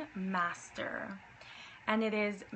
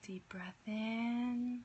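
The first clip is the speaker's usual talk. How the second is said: whisper; 5 dB quieter than usual. Acted. Whispered breathing cues.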